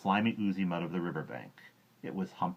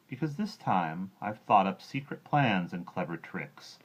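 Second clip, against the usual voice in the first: sly boast; 3 semitones higher, slower than usual. Acted. Croc boasting slyly.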